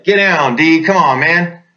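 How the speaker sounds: half-shouted order to a buddy in the open; urgent call to get down. Retold or imitated.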